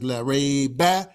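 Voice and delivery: slow, deliberate La rayba; careful recited La rayba; slow Arabic recitation. Shown as a demonstration. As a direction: stretch out La rayba. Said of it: "cancel out the idea of doubt".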